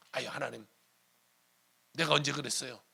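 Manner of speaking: wriggle out of a promise to God; sheepish denial. Acted. Acted backtracking on a promise. (슬쩍 발뺌하는 척)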